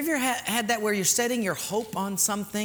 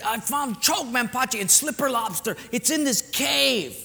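put-on excited kid urging; 4 semitones higher than usual. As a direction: urge him to follow you. Kid urges pastor into the cave.

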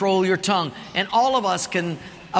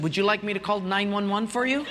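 sweetly; faster than usual. Retold or imitated. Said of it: "this lady was so sweet".

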